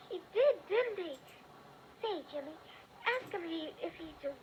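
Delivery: hushed whispered agreement. Acted. Girl whispering to her brother about the growl. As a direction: breathe it in awe.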